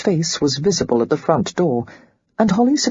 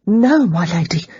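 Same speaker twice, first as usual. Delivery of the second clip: quick and eager; 2 semitones higher than usual. Acted. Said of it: "she said at once, seizing on the excuse".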